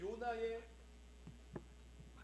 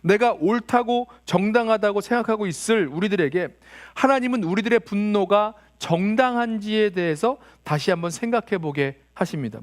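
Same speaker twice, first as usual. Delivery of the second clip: usual speaking voice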